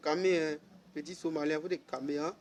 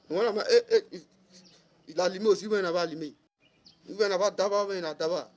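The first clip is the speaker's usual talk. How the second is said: raised, higher voice, worked up; heated louder rant; 3 semitones higher, 4 dB louder, faster than usual. Real, not acted. Ranting at a rival, raised and heated voice. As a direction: push it out louder, getting heated.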